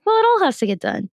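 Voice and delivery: "Well, it all has to get done" sung out high and breezy; chirpy retort. Retold or imitated. Answering the frustrated questioner with a high chirpy "Well, it all has to get done". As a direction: chirp it back, carefree. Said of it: "And it's like".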